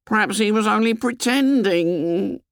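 high, hopeful suggestion trailing away; faltering hope; tailing off. A narrator's reading. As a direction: suggest it high, then let it die away. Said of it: "Piggy's voice tailed off".

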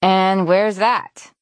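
sarcastic, talking through food; mock question with a mouthful; mouth full. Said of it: "talking with her mouth full".

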